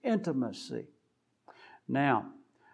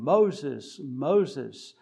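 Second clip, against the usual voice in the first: calling out; 4 dB louder than usual. Retold or imitated. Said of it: "who calls out to him".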